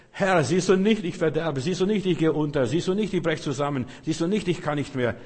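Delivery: loud, high pleading cry; desperate plea. Acted. Drowning believer crying out to the Lord desperately. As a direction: beg as if going under.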